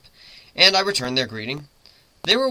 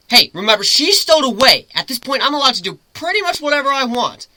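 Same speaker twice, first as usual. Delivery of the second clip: playful captor; 10 semitones higher, 5 dB louder than usual. Acted. Griffin teasing captive.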